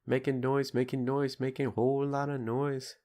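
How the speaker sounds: lightly chanted, soft record-sample imitation; imitating a record sample. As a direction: recite it like a half-remembered scratch sample. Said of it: "It's a sample from a record".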